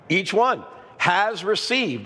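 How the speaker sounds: "Each one has received" said slowly, with weight on "one"; emphatic stress. Shown as a demonstration. Pastor stressing the verse's words to the church, emphatic. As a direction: lean on "one" and slow right down. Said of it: "That's an emphatic statement".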